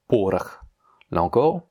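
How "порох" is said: "Порох" said PO-rakh; unstressed O as A. Shown as a demonstration. Teacher reads the next example, reduced second vowel. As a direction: say "Порох" with stressed O, then A. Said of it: "le deuxième O n'est pas accentué".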